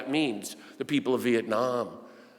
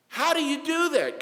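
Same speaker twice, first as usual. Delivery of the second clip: puzzled question; 4 dB louder than usual. Acted. Preacher voices puzzled questioner.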